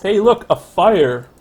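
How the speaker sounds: loud, high, drawn-out exclamation; excited call-out. Real, not acted. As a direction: call out the sudden discovery, slow and loud. Spots a fire in game.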